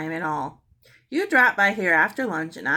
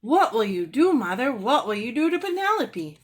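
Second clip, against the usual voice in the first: put-on eager, higher child's question; excited girl; 6 semitones higher, 4 dB louder than usual. Mary excitedly asking her mother about Penelope. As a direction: bounce the words up excitedly. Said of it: "bounced up and down excitedly".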